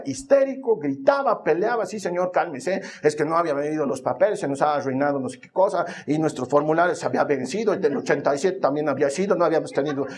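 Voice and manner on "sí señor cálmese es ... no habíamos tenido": lower, fast rambling excuses; mumbled clerk excuses. Retold or imitated. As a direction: rattle off bureaucratic excuses.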